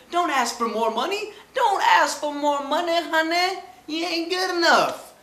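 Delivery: high, loud laughing scold; high mocking scold. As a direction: scold him like a know-it-all aunt.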